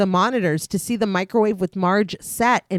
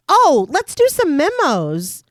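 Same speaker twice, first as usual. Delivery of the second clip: bored boss; 6 semitones higher, 4 dB louder, slower than usual. Acted. Voicing bored boss Clamp.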